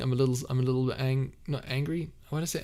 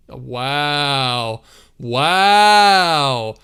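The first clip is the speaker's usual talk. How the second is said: surprised laugh; 2 semitones higher, 12 dB louder, much slower than usual. Real, not acted. Startled by chat, laughing.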